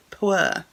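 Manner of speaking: "Pwr" read as a made-up word; "Pwr" blended into a word, stated firmly; sounding out PWR. Shown as a demonstration. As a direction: try saying "Pwr" as one word, without spelling it. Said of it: "spelled P W R".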